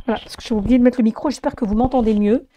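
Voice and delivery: voix enrouée et fatiguée; voix éteinte. Real, not acted. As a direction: parle malgré l'extinction de voix. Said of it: "désolé pour l'extinction de voix". (voix cassée, enrouée)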